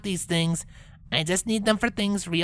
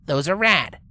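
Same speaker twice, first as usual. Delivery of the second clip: scoffing; 4 semitones lower, 3 dB louder than usual. Acted. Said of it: "Rainbow scoffed".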